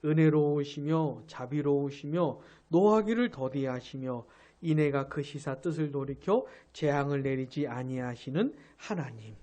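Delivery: the verse repeated slowly and deliberately; preacher rereads the verse for emphasis; slow emphatic rereading. Shown as a demonstration. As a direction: read it again, leaning on each phrase. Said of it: "이 절 후반에 나온 이, 이 말씀".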